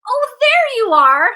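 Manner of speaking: high, loud and slow mock delight; playful mock welcome. Shown as a demonstration. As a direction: greet the inner judge like a long-lost friend. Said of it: "You can have some fun with this too".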